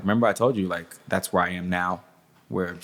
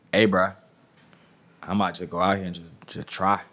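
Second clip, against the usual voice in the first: lightly put-on Atlanta accent; casual Atlanta accent. Shown as a demonstration. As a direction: slip into a hint of Atlanta accent. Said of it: "That's my Atlanta accent, by the way".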